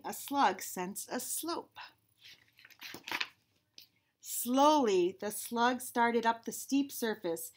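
slow, measured read-aloud; unhurried storybook reading; picture-book narration. Acted. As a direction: read slowly to children, savoring each alliterative word.

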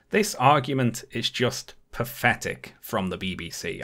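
pathetic hit hard and scornful; stress on pathetic. Real, not acted. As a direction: lean hard into the word pathetic with contempt. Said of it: "I can't physically put enough emphasis on the word pathetic".

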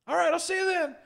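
over-the-top loud phone persona, pitched far up; loud obnoxious voice. Retold or imitated. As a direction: boom a fake-friendly hello down the phone, way up high. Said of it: "in my most, like, loud, obnoxious voice".

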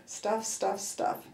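softly repeated, muttered to herself; under the breath. Shown as a demonstration. Mother showing her shopping trick, said under her breath. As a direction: murmur the mantra quietly. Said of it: "say under my breath".

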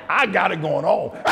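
big high whooping laugh. Real, not acted. Preacher cracks up at himself.

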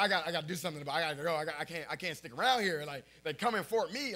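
fast, loud frantic rambling; panicking. Retold or imitated. Kid panicking after the flash signal, fast mock panic. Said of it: "I was like".

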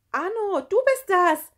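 high, loud cry out on the run; anxious excited call. A narrator's reading. Gerti calls to Arno while running, anxious high shout. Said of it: "rief Gerti beim Rennen und lachte ängstlich".

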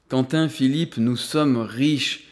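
slow, deliberate pronouncement; slow and weighty, as if just realizing it; declared forcefully. A narrator's reading. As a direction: drop each word slowly, as a revelation. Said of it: "asséna Alain".

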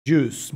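"Juice" with the I left silent; juice without the I. Shown as a demonstration. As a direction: say "Juice" as one syllable, no I sound. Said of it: "no pronunciar la I". ("Juice" sin pronunciar la I)

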